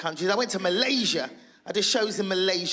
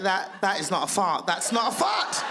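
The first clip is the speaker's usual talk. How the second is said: alarmed realisation. Retold or imitated. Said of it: "I thought".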